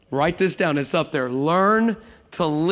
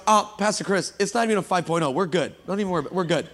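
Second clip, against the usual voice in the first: calm pastor; 3 dB quieter, faster than usual. Retold or imitated. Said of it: "the pastor looks back and goes".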